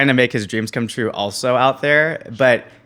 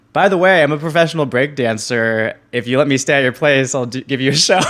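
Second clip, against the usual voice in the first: upbeat, eager sales pitch; begging pitch; 4 semitones higher, 5 dB louder than usual. Retold or imitated. Begging restaurant people for a place, eager pitch. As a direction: sell yourself hard to a stranger. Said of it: "I was like".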